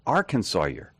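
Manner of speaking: Arkansas year echoed as AR-kən-saw-yer; repeated older demonym. Shown as a demonstration. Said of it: "You wanna tell me the older?".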